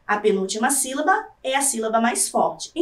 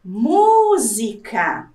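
"música" very slow, with MÚ stretched long; lingering on tonic syllable; 3 semitones lower, much slower than usual. Shown as a demonstration. Teacher testing for the tonic syllable, long MÚ in "música". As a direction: call out "música", holding the first syllable. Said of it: "nas sílabas tônicas eu me demorei mais".

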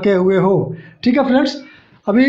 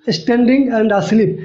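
very slow, each word drawn out; slow listing; much slower than usual. Shown as a demonstration. Teacher slowly lists the exceptional words. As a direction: stretch each word so students catch it. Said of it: "exceptional case है".

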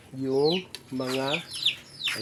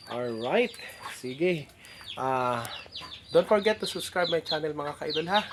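speaking through missing front teeth; slower than usual. Real, not acted. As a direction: talk with a gap where front teeth were. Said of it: "Bungal ako".

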